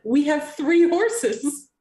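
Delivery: slow, drawn-out mind message; psychic voice. Acted. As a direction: send it slowly like telepathy. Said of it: "I'm gonna say in my head".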